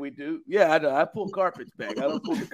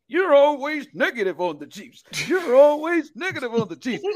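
high whiny imitation of a friend; mocking whiny voice; 11 semitones higher than usual. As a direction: mimic him in a high whine. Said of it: "B K had the audacity to say".

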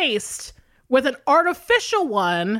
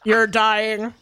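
prank caller; 3 semitones lower, much slower than usual. Acted. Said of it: "stupid prank phone call name".

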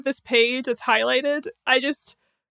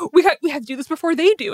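big speech voice; 2 semitones higher, 4 dB louder, faster than usual. Acted. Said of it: "these big speeches".

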